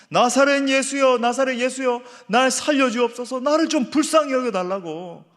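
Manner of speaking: a blind beggar crying out for his life; preacher voicing the beggar's desperate plea. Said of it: "절박하게 막 부르짖고 있는 거예요".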